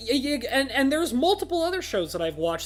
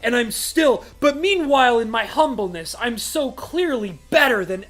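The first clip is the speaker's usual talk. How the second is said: mocking brooding hero; 4 dB louder than usual. Reviewer mocking the brooding main character, in a loud sneering impression. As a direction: ham up the humble, brooding hero's self-pity. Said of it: "He's like".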